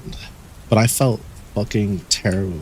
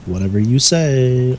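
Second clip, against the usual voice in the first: dismissive; 4 semitones higher, 3 dB louder, slower than usual. Shown as a demonstration.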